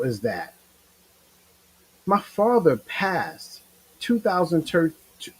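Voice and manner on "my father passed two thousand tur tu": slow words catching in the throat; choking up. Real, not acted. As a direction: voice stalls on the year, choked up. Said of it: "I'm choking up a little bit".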